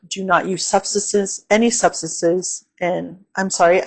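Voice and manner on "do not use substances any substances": slight lisp on the s sounds. Real, not acted. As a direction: lisp through substances. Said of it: "I'm, like, lisping".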